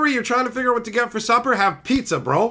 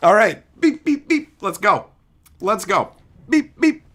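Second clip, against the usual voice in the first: excited beeping; 7 semitones higher, 7 dB louder than usual. Real, not acted. Wheel landing, cheering.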